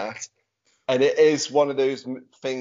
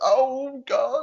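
dismayed groan; 12 semitones higher, 3 dB louder than usual. Retold or imitated. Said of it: "It's like".

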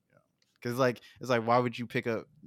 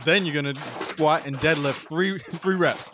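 louder, laughing gym coach pep talk; trainer voice; 3 semitones higher, 6 dB louder than usual. Retold or imitated. Mocking friend Mitch as a secret trainer, loud coach pep talk. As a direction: hype them up like a personal trainer. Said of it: "Mitch is like".

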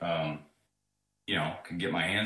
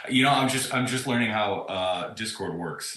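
on speakerphone; 4 semitones higher, 7 dB louder than usual. Real, not acted. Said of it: "It sounds like you're using speakerphone".

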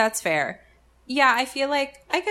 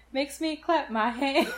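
higher, slower gospel call with a laugh; a gospel artist's shout; 7 semitones higher than usual. Retold or imitated. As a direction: belt it like a gospel leader calling to the choir. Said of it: "it makes me think of Kirk Franklin".

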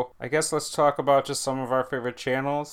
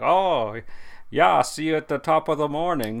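imitated Irish accent. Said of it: "she has, like, an Irish accent".

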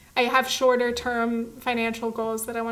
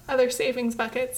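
words caught in a choking throat. Real, not acted. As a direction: talk while starting to choke. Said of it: "I'm choking".

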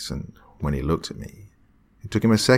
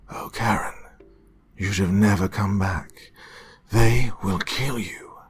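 tearful warning; 4 semitones higher than usual. Acted. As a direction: warn her through tears. Doctor warns her, crying.

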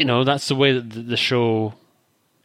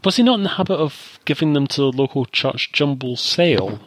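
"sale" hit hardest at the very end; stress on last word; 2 semitones higher than usual. Real, not acted. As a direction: lean on the final word "sale". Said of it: "I put the emphasis on the last word there".

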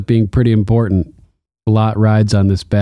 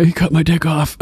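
mocking Theon; 6 semitones higher than usual. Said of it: "You know".

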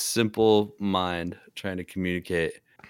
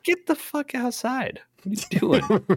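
yelling at dog. Pretend. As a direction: yell the dog out the door, high. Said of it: "I'd be like".

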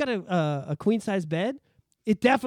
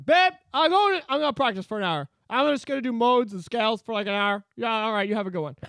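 mock music guy; 3 semitones higher than usual. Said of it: "music guys".

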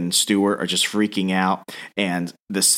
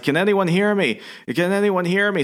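mock scream; 10 semitones higher than usual. Trapped man calls for rescue from under rubble, mock scream. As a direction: imitate a trapped man calling out. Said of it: "And he's screaming".

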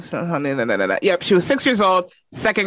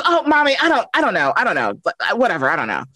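blowing me off; 3 semitones higher, faster than usual. Retold or imitated. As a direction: shrug it off like a guilty six-year-old. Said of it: "blowing me off".

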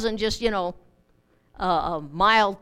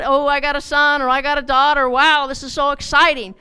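louder, eager bragging; proud father; 3 semitones higher, 5 dB louder than usual. Retold or imitated. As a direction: crow about the new baby. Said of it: "telling them how proud".

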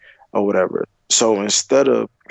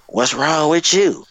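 higher, slow pointed question; drawn out and accusing; girlfriend's slow demanding question; 7 semitones higher, slower than usual. Retold or imitated. Girlfriend confronting him after the guard asks. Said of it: "she gonna come over to me, and ask me".

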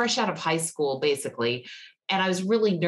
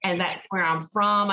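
Southern drawl. Pretend. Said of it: "did you change your accent on purpose".

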